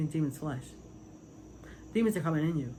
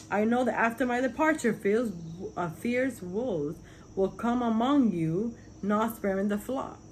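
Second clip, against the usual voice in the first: raised, emphatic verse reading; higher-pitched, declaimed Bible quote; scripture reading; 5 semitones higher than usual. Acted. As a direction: read the verse out higher, like a preacher. Reads a Bible verse aloud.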